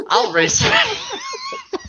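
gleeful shout. Acted. Flash teasing Joan, laughing.

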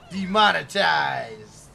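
slow, loud mock lament of "demonetized"; slow, loud, hammed-up "demonetized"; drawn-out mock lament. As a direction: stretch it out like a mock tragedy. Running joke catchphrase.

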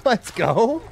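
high, loud victory whoop; triumphant shouting. Real, not acted. Gamer celebrating first kill, triumphant yelling. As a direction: celebrate a first win at full voice.

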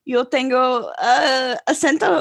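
halting, put-on Spanish accent; mock Spanish accent. Mocking her claim to an accent, halting fake Spanish. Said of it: "she fakes an accent around him".

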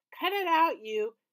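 loud pained yell; angry yell. A narrator's reading. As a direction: yell after being punched. Alex hit in the gut.

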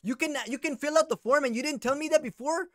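hammed-up Chicano slang voice; Chicano cholo accent. Prank caller in a Chicano accent berating the scammer. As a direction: play a touchy Chicano vato with a Chicano accent.

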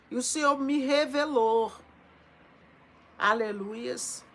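loud, swelling prophecy with long held words; prophetic preaching. Acted. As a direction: proclaim it like a revelation over the flock. Proclaims prophecy over viewers.

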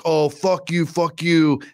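mock the man swearing back; retold defiance. Other guy defies him in retold standoff.

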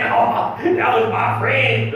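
mock grieving friend, drawn out and slow; a hint of false grief at a graveside; fake mourner. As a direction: play the two-faced mourner at the funeral. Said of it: "come to your funeral and say".

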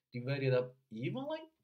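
"Divided up evenly" linked up to "up", then "evenly" set apart, stressed and rising; unlinked stressed ending. Shown as a demonstration. Coach answering why not link it, unlinked stress. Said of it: "该连它就是不连".

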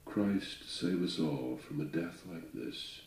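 measured, dramatic recitation of a ballad; poem reading. A narrator's reading. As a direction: read it like an old sea ballad. Reads Longfellow poem aloud.

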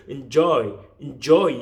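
"enjoy" with a weak first syllable and strong "joy"; stress at back. Shown as a demonstration. Teacher shows learners where enjoy is stressed, back-stressed. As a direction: barely say the front of "enjoy", land on "joy". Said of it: "앞에를 어떻게 약하게 해줘야 돼요".

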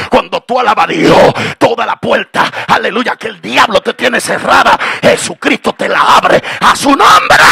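shouted preaching climax; fiery preacher shouting; full-force preaching. Acted. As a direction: preach it out loud to the crowd.

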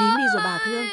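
put-on calm the child by drowning out the sobs; loud hushing. Grandma to wailing grandchild, loud high hushing.

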